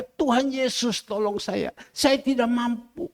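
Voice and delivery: pleading prayer, re-enacted in repeated falling phrases; mild imitated cry of helplessness; retold crying out. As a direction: plead with God for help, retelling your own prayer. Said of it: "Saya hanya teriak".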